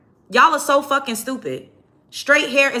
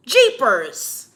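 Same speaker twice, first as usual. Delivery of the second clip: mock jeepers. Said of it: "talking like that".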